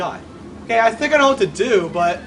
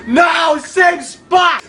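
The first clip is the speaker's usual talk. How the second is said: high, raised protest; frustrated cry; 4 semitones higher, 3 dB louder, much slower than usual. Real, not acted. Player failing at the same spot, dismayed shout. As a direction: cry out in disbelief after a gasp.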